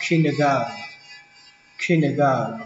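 "kindergarten" with the last syllable swallowed to a nasal n, KIN-der-gar-n; dropped ending. Shown as a demonstration. Teacher shows the third way, ending reduced to n. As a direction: say "kindergarten" without T or D at the end. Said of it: "đọc chữ sau này thành chữ ờn".

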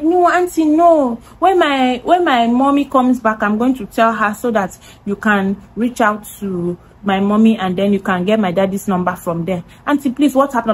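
lightly voiced child saying no, auntie; imitating a pleading little girl. Voicing the younger sister pleading.

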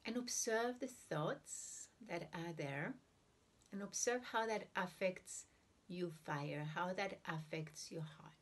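unhurried meditation guidance with long silent pauses; guided meditation. Real, not acted. Teacher guiding listeners to breathe and observe the heart, guided meditation. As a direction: ease listeners into breathing, leaving room between phrases.

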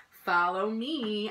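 slow, sure invitation; confident. Acted. A boy answering a singer slowly. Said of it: "I said".

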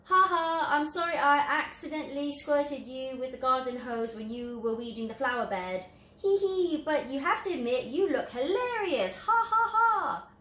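high, loud, giggling fake apology; mocking laughter. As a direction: laugh at him while saying sorry. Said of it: "this one's laughing at him".

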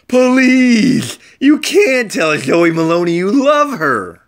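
high, loud, pleading cartoon voice; a paper heart begging Leon to stop; squeaky Valentine voice. A narrator's reading. Paper Valentine pleading with Leon, high and squeaky.

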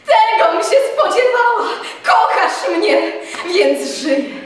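loud, high, breathless joy; overjoyed outburst. A narrator's reading. Telimena flinging herself at Tadeusz, ecstatic and loud. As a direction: throw it out with relief and delight. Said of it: "skoczywszy, padła mu na szyję".

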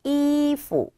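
이푸 with 이 held high and level, 푸 short and dropped; neutral-tone demo. Shown as a demonstration. Teacher models the word for clothes, high tone then neutral tone. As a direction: hold 이 high, then drop 푸 lightly. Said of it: "경성이에요".

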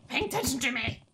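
lightly put-on pouty horse voice; voicing the horse. A hint of the annoyed horse demanding attention from its rider. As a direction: speak for the sulky horse, half in jest. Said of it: "She's like".

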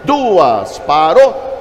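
calling out. Real, not acted. Auctioneer closing the bidding.

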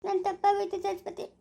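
halting, sobbing apology; tearful remorse. Acted. Husband admitting his fault to Saraswati, crying. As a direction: confess it haltingly through tears. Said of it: "ನೀನ್ ಅಳ್ಬೇಡ ನಗು".

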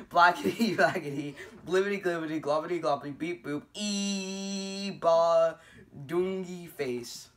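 fast, bouncy gibberish; silly sounds. Pretend. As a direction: rattle off the nonsense playfully. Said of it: "make silly sounds".

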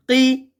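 কি with a thick q from the tongue root; heavy articulation. Shown as a demonstration. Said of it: "একটু মোটা করে".

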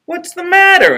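very high crocodile voice; squeaky character asking. A narrator's reading. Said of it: "asked the crocodile".

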